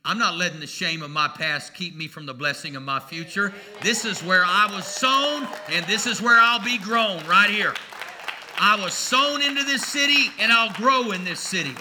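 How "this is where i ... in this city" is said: preaching. Acted. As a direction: plant each word like a preacher. Preaching with rising force.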